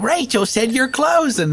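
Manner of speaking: high and slow, stressed out; crazy prank caller voice. Retold or imitated. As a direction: insist in a strange high voice. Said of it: "do crazy sounding stuff".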